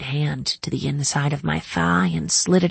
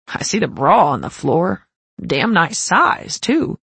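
teasing; 4 dB louder than usual. Acted. Riker teasing about the bra.

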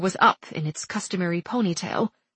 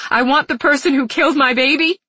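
sobbing, voice catching, higher and louder; breath catch; 7 semitones higher, 5 dB louder than usual. A narrator's reading. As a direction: catch your breath between sobs. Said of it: "said between sobs".

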